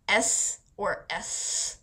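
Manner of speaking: S said as a lisp, tongue through the teeth, very slowly. Shown as a demonstration. Showing viewers what a lisp sounds like, slow lisped S. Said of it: "you say it like".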